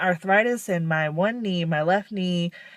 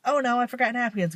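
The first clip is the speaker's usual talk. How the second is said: higher and fast, mild dismay; mock oh no; 5 semitones higher, faster than usual. To herself in Walmart, mild dismay at forgetting. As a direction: blurt it as you remember. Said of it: "Then I'm like".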